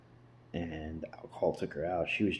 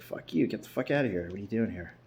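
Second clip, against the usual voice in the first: retold snap; faster than usual. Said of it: "I snapped".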